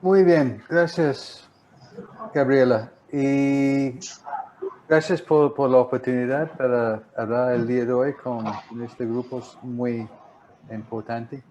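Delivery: Spanish with an American accent; American English speaker's Spanish; gringo accent spanish. Real, not acted. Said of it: "sigo hablando como gringo". (español con acento gringo)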